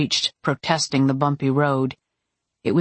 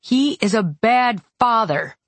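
higher-pitched indignant retort; a touch of angry snarl, pitched up; mild snarl; 7 semitones higher than usual. A narrator's reading. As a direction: throw it back, lightly snarled. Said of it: "I snarled".

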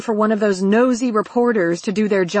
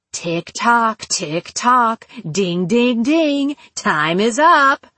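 deliberate, contemptuous villain taunt; gloat, then chime out the countdown; slower than usual. Acted. Captor mocking his captive as time runs out, gloating.

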